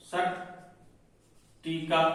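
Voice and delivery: सट्टिका stretched very slowly and softly; drawn out. Shown as a demonstration. Teacher slowly stretching सट्टिका for the class. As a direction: drag out every sound of सट्टिका. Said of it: "सट्टिका हो गया".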